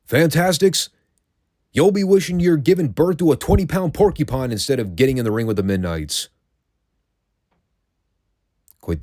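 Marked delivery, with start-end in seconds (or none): 0.0-6.3 mock wrestling promo. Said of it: "a line at the end where he added".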